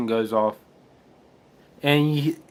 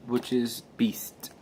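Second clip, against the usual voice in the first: whispered aside; 9 dB quieter, slower than usual. Real, not acted. Whispered aside about Hank.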